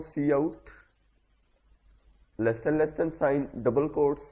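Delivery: slow, drawn-out reading of code symbols; dictating each symbol slowly to students; slow dictation. Shown as a demonstration. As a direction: spell it out slowly as you type. Dictating code while typing it.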